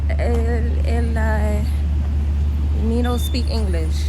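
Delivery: playfully putting on a broken-English foreigner; mock foreigner. Dodging son's Jamaica question jokingly.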